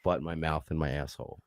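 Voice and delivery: quiet. Real, not acted. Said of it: "You don't wanna say it".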